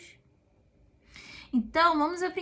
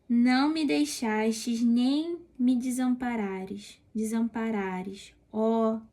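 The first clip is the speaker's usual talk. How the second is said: slow, drawn-out solemn reading; psalm reading; slower than usual. Acted. Preacher reading David's psalm to listeners, slow and solemn. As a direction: let each plea of the psalm hang.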